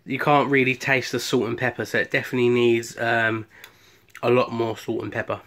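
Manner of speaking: talking while chewing; words round a bite of food; mouth full. Real, not acted. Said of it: "Eat with my mouth full".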